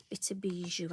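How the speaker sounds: soft unvoiced aside to the viewer; whisper. Real, not acted. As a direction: breathe it like a little secret. Crafter aside while stamping.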